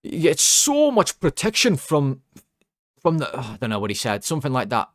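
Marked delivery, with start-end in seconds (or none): 0.0-3.3 high, loud, drawn-out Geordie heckle; attempted Geordie shout. Fan shouting down the commentary mic, bad Geordie accent. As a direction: have a rough go at shouting in Geordie. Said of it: "a Geordie accent".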